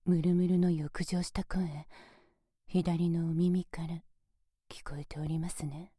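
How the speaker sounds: aroused whisper close into the left ear. Acted.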